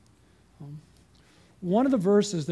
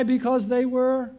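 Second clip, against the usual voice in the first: usual speaking voice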